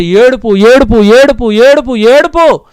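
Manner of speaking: grieving refrain stretched slowly; drawn-out lament. Acted. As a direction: stretch each word in grief. Lamenting repetition.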